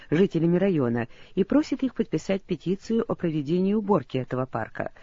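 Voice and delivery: usual speaking voice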